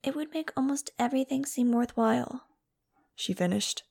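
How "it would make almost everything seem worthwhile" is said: high-pitched, pleading character voice; plaintive Angel. A narrator's reading. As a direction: keep it high and wistful. Angel finishing her sad plea.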